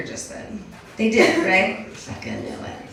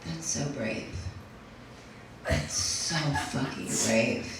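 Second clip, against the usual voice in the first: softer, mock-admiring gush; 3 semitones lower, 12 dB quieter than usual. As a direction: gush softly as if praising heroics. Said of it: "people always say things like".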